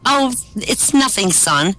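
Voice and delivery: slow, high start, hedging; embarrassed mother. Acted. Mother dodging her son's question, embarrassed. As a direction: brush it off like an embarrassed mom. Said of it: "the mother's really embarrassed".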